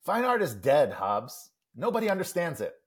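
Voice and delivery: animated know-it-all pronouncement, pitch swinging high; comic-strip monologue. Acted. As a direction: declare it like a lofty pundit, lightly acted. Reads comic monologue in character.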